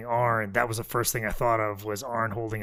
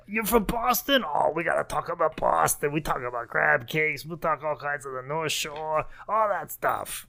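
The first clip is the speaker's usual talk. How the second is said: Kevin Sullivan impression; 4 semitones higher than usual. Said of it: "Kevin Sullivan's first line to her".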